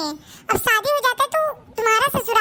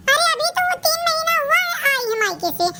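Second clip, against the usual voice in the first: put-on higher, surprised girl's voice; surprised sister; 5 semitones higher than usual. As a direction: voice the sister, astonished. (हैरान बहन)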